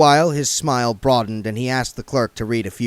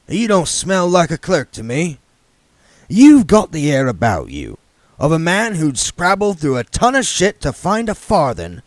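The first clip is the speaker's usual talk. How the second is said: a higher, louder put-on voice for the scrap king; the king sizing up the young man; Harry King voice; 6 semitones higher, 6 dB louder than usual. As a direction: voice the shrewd old yard boss sizing him up.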